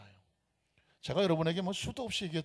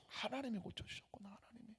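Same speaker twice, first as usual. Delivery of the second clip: unvoiced, awed realization fading out; awed whisper; 5 semitones higher, 14 dB quieter than usual. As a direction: whisper it in stunned gratitude. (놀라움에 찬 할머니의 속삭임)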